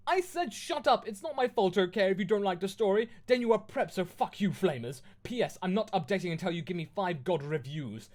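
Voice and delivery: high, loud tantrum easing toward the end; ranting fanfic author. Acted. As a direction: launch into an indignant rant at critics, then settle. Reads the author's note in voice.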